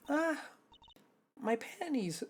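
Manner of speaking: strained whisper yell that cracks; whisper scream. Acted. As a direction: voice cracking on a hushed shriek. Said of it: "I was trying to do a whisper scream".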